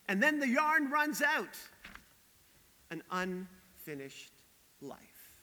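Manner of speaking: weary, in-your-face reading of Job; dramatic scripture reading. Acted. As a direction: read it like a tired man's lament. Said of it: "in language that is a bit more contemporary, a little bit more in your face".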